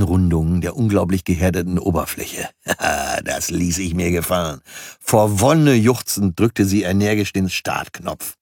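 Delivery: lively audiobook reading of his own novel; story narration. A narrator's reading. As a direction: read it like an entertaining audiobook. Reads his audiobook aloud.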